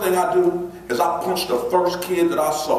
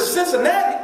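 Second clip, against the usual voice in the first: surprised; 13 semitones higher than usual. Retold or imitated. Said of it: "I said".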